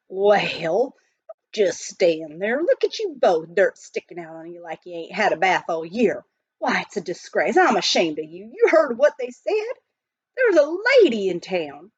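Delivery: lightly voiced cranky miner; scolding miner. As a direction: shame them into washing up. Billy scolds the dirty partners.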